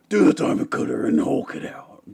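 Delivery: breathless laughing through the words. Pretend. Joking about a wrestling move after a sale, laughing hard. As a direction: gasp it out mid-laugh.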